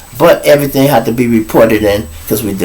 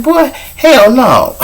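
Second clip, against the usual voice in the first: flat refusal; 12 semitones higher, slower than usual. Retold or imitated. Refusing shower security request.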